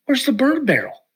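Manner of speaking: high called-out question across the yard; calling out. Retold or imitated. Son calling out to his dad, hollering up high. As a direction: call it out to him from the front of the camper.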